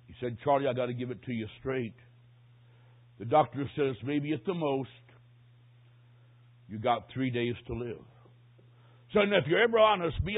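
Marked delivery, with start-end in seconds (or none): 0.4-8.0 grave bad news. Pastor breaks news to dying man.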